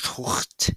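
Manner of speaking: throaty "toort" for tout; French pronunciation. Shown as a demonstration. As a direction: tout with a rasped, voiceless French r. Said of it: "how you say it in French".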